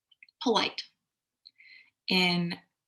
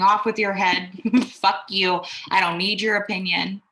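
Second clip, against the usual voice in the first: louder, dismissive royal outburst with a laugh; mock emperor rage; 4 dB louder than usual. Emperor dismissing whoever opposes him, mock furious. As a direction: bark it like a tyrant brushing off critics. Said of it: "an emperor saying".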